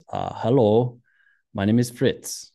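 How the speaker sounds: lightly imitated Austrian accent; bad Austrian accent. Skier introduces himself to a new acquaintance, bad Austrian accent. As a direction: attempt a mild Austrian accent. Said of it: "That's a really bad Austrian accent".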